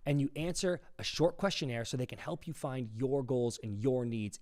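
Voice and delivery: measured, emphatic podcast ad read; sponsor read. Acted. Host telling listeners about a sponsor, ad read. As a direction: pitch the sponsor sincerely, stressing key words.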